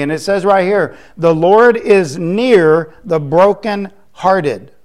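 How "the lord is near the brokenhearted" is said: slow, loud scripture declaration; emphatic preaching. Real, not acted. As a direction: declare the verse slowly, word by word.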